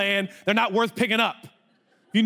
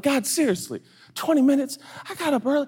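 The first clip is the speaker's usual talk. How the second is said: exasperated plea; 7 semitones higher than usual. Retold or imitated. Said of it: "this is what I do with God".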